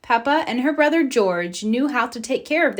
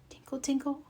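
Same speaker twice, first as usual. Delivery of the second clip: soft tinkle; 4 semitones higher, 10 dB quieter, faster than usual. A narrator's reading. Fairy arrives at night.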